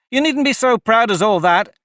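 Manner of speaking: proud retort. A narrator's reading. Alice's retort.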